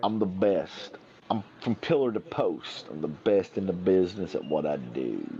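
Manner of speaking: lightly voiced Herman impression; a hint of a boastful Herman. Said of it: "In his Herman voice".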